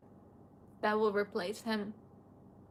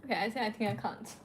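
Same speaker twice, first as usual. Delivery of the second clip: overwhelmed; 4 dB quieter, faster than usual. Real, not acted. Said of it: "the memories hit".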